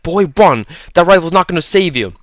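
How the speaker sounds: high, loud, distant-sounding scream; screaming from outside. A narrator's reading. Holloway screaming to Leo from outside the truck. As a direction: yell across the clearing at the boy. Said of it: "Holloway screams from outside".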